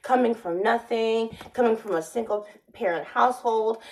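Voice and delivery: half-hearted mock Spanish accent, barely shifted from her own voice; a hint of a put-on Spanish accent; fake Spanish accent. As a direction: lightly imitate a Spanish-accented job interviewer. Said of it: "trying to put on a fake Spanish accent".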